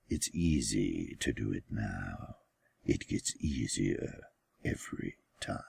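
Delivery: put-on boy confiding in his brother, hushed whisper. A narrator's reading. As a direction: let it sink into a secret whisper. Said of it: "He also whispered".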